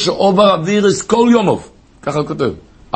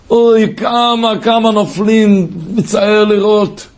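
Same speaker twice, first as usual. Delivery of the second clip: slow pained lament; 3 semitones higher, slower than usual. Real, not acted. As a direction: grieve over the fallen, drawn out. Preacher laments fallen youths.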